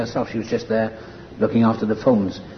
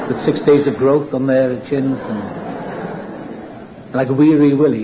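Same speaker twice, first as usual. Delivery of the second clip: laughing; 2 semitones higher, slower than usual. Real, not acted. Laughing at his own picture.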